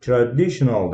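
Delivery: unhurried, like the app's slow mode; slow reading. Shown as a demonstration. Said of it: "aldirma o'qib turadi".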